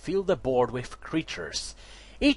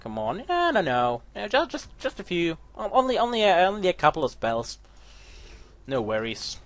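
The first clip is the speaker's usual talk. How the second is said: mocking the opponent; 5 semitones higher than usual. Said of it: "I love when they do that".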